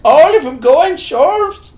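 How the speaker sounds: high, slow, laughing. Real, not acted. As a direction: laugh the words out. Laughing mock voice.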